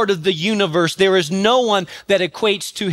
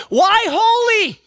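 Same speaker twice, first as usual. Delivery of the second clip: "Why holy?" cried out high and slow, "holy" hammered; shouted question; 12 semitones higher, slower than usual. Real, not acted. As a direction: hurl the question at the congregation.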